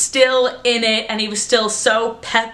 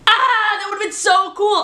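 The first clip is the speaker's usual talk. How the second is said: excited sigh; 10 semitones higher than usual. Real, not acted. Wistful excitement.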